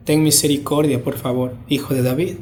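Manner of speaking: low, soft begging for mercy; hushed, lowly supplication; humble plea. Acted. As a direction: plead meekly, voice dropped right down. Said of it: "hay una humildad acá".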